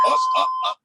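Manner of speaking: high, loud coach call; energetic coach shout over music. Real, not acted. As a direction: belt it out to pump the class up.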